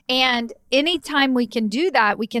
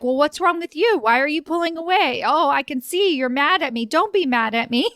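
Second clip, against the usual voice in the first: manipulative boss; 5 semitones higher than usual. Retold or imitated. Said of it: "or more like".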